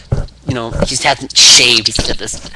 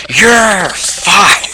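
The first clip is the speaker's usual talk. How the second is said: drawn-out, high, louder catchphrase; mock boss firing; 9 semitones higher, 7 dB louder than usual. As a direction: stretch out a hammed-up firing in a put-on voice. Acting Vince firing C M Punk.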